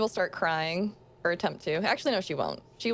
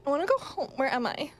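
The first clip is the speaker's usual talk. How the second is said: put-on whiny lost girl; 5 semitones higher, faster than usual.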